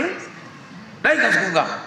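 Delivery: put-on a stubborn kid stretching out his refusal very slowly; drawn-out mock refusal, very slow. Sibling quarrel over seat. (भाई की बहुत धीमी, खिंची हुई ज़िद्दी मना)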